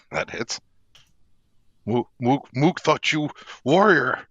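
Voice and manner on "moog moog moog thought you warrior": proud brute boasting, rising; orc voice. Acted. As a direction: dim orc crowing he's still up.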